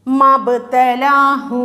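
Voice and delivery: "മബ്തലാഹു" chanted slowly with short ma and long laa; short first vowel. Shown as a demonstration. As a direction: recite "മബ്തലാഹു" without stretching ma. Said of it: "മബ്തലാഹു എന്ന് ഓതിയാൽ മതി".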